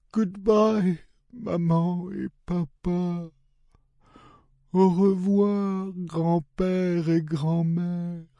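high, slow, breathy sad farewell; tearful goodbye. A narrator's reading. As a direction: whisper a tearful goodbye to everyone. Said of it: "sobbed Wilma".

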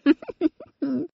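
put-on high toddler giggle. A narrator's reading. Baby giggles at her own request, high and light. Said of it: "giggled Baby".

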